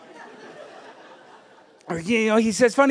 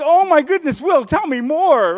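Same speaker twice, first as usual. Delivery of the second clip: mock-thrilled teachers begging for more; eager amazement; 9 semitones higher, 8 dB louder than usual. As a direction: lean in like the scholars can't get enough. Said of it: "they're like".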